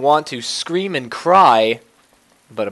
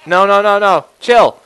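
panicked; 6 semitones higher, 8 dB louder than usual. Real, not acted. Panicking as threat closes in.

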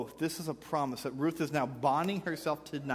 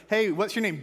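mock stranger; 7 semitones higher, 6 dB louder than usual.

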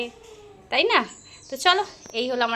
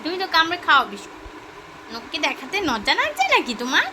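coaxing to eat; 3 semitones higher than usual. Real, not acted. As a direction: cheer her on to take a bite. Coaxing her mother to eat.

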